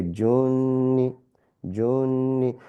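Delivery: junni with the nn held and nasal; junni with ghunna. Shown as a demonstration. Teacher drilling junni with a nasal hold. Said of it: "You have junni".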